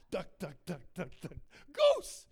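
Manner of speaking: even ducks, then a yelled goose; children's game call. Acted. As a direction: count off, then burst out on goose. Acts out duck, duck, goose.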